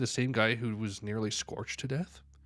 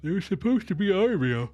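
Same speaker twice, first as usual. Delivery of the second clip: dismayed character; 9 semitones higher, 5 dB louder than usual. Acted. Dismayed at the monsters.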